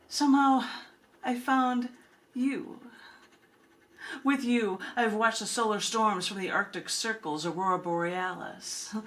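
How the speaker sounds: recited as a poem with long pauses between lines; spoken-word poem recital; poetry reading. Acted. Reads her own love poem.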